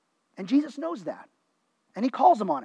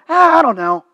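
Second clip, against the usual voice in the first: retold sudden doubt; 3 semitones higher, 4 dB louder than usual. Crowd suddenly turns doubtful.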